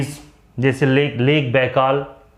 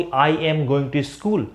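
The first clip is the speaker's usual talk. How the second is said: I am going to school, word by word, very slow; slow example; much slower than usual. Shown as a demonstration. Teacher modeling an example sentence, very slow. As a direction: spell out each word of the sentence. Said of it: "जैसे मैं कहूँ कि".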